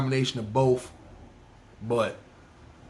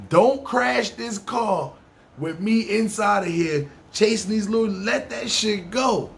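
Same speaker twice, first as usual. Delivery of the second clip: urgent plea; 6 semitones higher than usual. Retold or imitated. Passenger begging the cab driver to stop chasing, high and slow. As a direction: beg him to let it go, drawn out.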